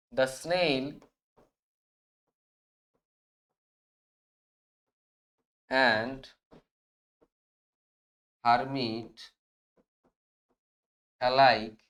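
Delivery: word by word with long pauses; slow dictation. Shown as a demonstration. Teacher dictating the answer to students, slow word by word. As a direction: spell out each word slowly so students can write it. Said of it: "তাহলে আমরা এটা কিভাবে লিখবো?".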